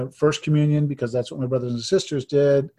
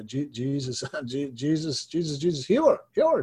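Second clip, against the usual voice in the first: stammering then rising fervent plea; fervent prayer. Retold or imitated. Retold fervent healing prayer.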